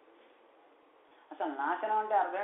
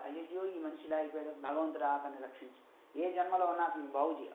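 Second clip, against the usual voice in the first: softer, lower mock-tearful plea; imitated lament; 3 semitones lower, 4 dB quieter than usual. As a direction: plead for a soul in an understated lament. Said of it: "అలా ఏడవాలి". (ఏడుస్తున్నట్టు మెల్లగా వేడుకోలు)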